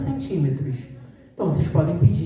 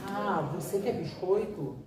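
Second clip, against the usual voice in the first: slow modelling; 9 dB quieter than usual. Shown as a demonstration. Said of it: "Você modela".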